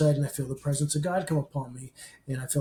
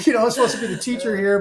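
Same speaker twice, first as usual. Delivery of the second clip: laughing, higher, louder and fast; 7 semitones higher, 7 dB louder, much faster than usual. Real, not acted. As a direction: blurt it out through a laugh. Laughing at his own nerves.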